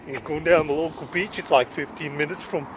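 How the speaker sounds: lightly put-on vlogger voice; Neil Morris parody. Parodying a friend on his beach walk, light mock voice. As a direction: gently imitate another vlogger's delivery. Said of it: "a wee parody of, uh, Mister Neil Morris".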